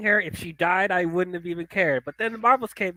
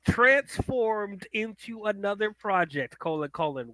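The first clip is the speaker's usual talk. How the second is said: slow reading aloud; 3 dB quieter, slower than usual. Shown as a demonstration. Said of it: "let's read this sentence".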